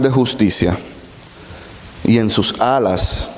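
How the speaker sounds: solemn reading of scripture. Acted. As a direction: read the verse with weight. Reads Malachi verse aloud.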